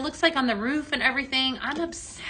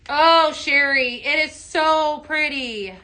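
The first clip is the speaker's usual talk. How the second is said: gushing admiration; 3 semitones higher, 6 dB louder, slower than usual. Real, not acted. Admiring viewer's blend.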